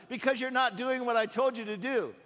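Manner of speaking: irritated master scolds donkey; angry rider. Acted. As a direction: tell off a stubborn animal. Prophet snaps at donkey.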